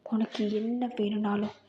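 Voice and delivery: possessive lover. Acted. A singer voiced low, possessive. (தாழ்ந்த குரலில் உரிமை கொண்டாடும் காதலன்)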